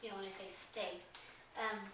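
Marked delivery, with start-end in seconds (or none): 0.5-1.0 low, firm authoritative Stay; low commanding Stay. Shown as a demonstration. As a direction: set the dog in place with a firm word. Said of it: "commanding, authoritative tone of voice".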